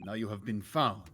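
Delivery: understated Swedish sailor, stern; Swedish accent. Acted. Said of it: "I'm still doing Swedish".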